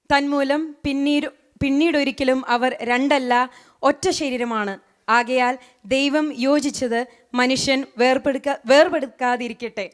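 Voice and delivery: fast Malayalam verse recitation; rushed reading. Acted. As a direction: rattle through the verse quickly.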